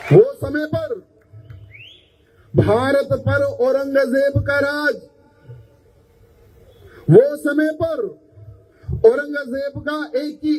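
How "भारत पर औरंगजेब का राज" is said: ordinary talk, nothing marked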